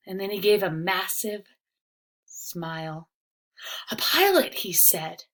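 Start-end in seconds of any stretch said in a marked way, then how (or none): 3.9-4.5 delighted. Acted. Riley delighted at idea.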